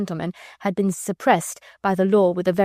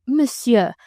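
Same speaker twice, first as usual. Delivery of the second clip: French protest; 4 semitones higher, 4 dB louder than usual. Acted. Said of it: "protested the Vicomte".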